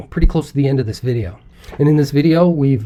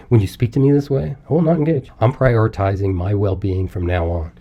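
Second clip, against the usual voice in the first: calm; 4 semitones lower than usual. Shown as a demonstration. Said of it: "the difference between saying that calmly and loudly".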